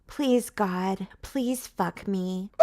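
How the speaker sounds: mock prayer. Heroine praying, laughing.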